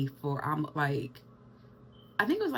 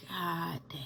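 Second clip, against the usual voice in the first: muttered amazement; 5 dB quieter than usual. Retold or imitated. Looking at her newborn.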